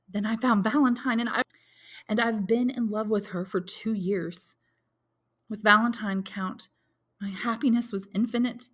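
lightly voiced young man, heartbroken; a hint of a grieving young lover, slowing on his loss; young soldier mourning his beloved, lightly voiced; Maximilian voiced.

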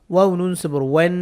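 final n of "ওয়ান" hummed through the nose; "ওয়ান" with a long nasal n; ghunnah. Shown as a demonstration. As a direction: spell "ওয়াও নুন জবর ওয়ান", holding the last nasal. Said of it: "গুণনা করবো".

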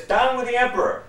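high, loud shout into the cave; yelling. Acted. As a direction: bellow it to draw him out. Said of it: "He says".

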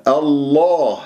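الله with a dark, full "llaa"; emphatic "Allaah"; heavy lam. Shown as a demonstration. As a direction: thicken and lengthen the lam of الله. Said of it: "تفخم اللام".

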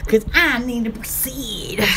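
deep put-on voice. Acting out a bathroom voice.

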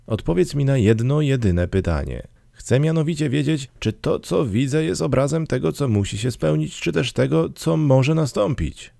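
high-pitched, earnest questioning; anxious Scrooge. A narrator's reading. Scrooge asks the ghost if the future is fixed, anxious and high. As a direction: voice Scrooge high, pressing for an answer.

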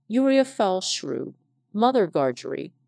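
a touch of a surly growl at her; understated growl at the sister. Acted. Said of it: "growled the journeyman".

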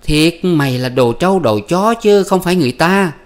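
high, loud shrieking curses; wife cursing her husband, high and loud; furious wife. Acted. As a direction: wail to heaven at the insult, pitch way up. Wife voiced screaming curses.

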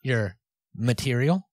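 slow, pointed "material" with rising end; "material" as a loaded euphemism, drawn out; verbal air quotes. Real, not acted. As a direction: set "material" apart, lifting it at the end. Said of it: "quote, quote unquote".

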